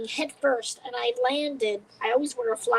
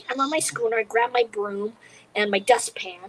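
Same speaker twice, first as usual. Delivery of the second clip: ordinary delivery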